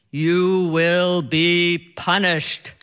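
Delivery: slow, booming mock god voice; deep godlike voice. Husband teasing wife in a slow mock godlike voice. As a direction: summon the powers of the universe, teasing. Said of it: "in this deep, godlike voice".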